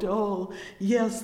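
normal talking voice

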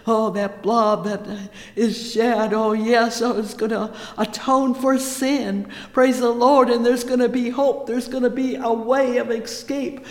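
loud, rising preacher's cry; preaching at full force. Acted. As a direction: pour it out like a fervent preacher.

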